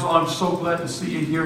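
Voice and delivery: imitated gushing, high-pitched joy; tearful joy. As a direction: act her overjoyed, near-tears greeting. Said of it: "she's crying".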